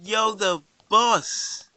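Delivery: loud, very slow proud cheer; excited cheer. Real, not acted. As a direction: hail the bird as the boss. Bird keeps flying, cheering.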